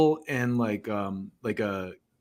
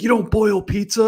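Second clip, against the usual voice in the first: baffled Brit; 9 semitones higher, 6 dB louder than usual. Retold or imitated. Someone baffled in Bill Hicks joke.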